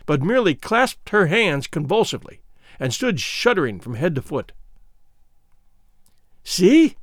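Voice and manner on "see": high, loud gleeful shout; gleeful cry. Acted. Scragga gloating over his spear, high gleeful cry. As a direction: crow it out with cruel delight. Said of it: "cried Scragga, in high glee".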